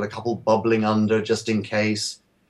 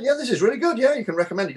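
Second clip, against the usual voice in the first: quoting clients; 12 semitones higher, faster than usual. Retold or imitated. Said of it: "a couple of people who said".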